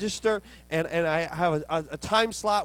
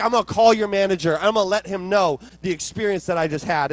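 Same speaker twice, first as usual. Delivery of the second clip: raised, hurried mock threat; mock customer threat; 6 dB louder than usual. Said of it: "throw out that threat".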